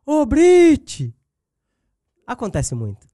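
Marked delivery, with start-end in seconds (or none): 0.0-1.1 a high, loud street call across the road; an excited fan shouting her name from afar. Retold or imitated. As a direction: hail her loudly from the other side of the street. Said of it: "uma pessoa grita assim".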